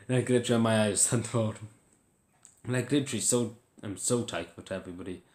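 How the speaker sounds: happy tears with a small laugh breaking in; moved to tears, laughing through it; laughing and crying. Real, not acted. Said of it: "I'm laughing and crying with enjoyment".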